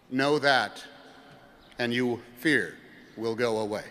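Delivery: lightly voiced wise elder; wise old sage. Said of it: "said the wise man".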